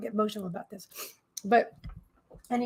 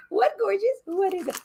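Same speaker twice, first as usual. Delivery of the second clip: doting pet talk; 7 semitones higher than usual. Real, not acted. Talking to her dog.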